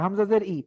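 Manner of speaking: ই from the throat, no glide; throat-made i. Shown as a demonstration. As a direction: say ই as a bare vowel from the throat. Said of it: "ঠোঁট দেখেন আমার".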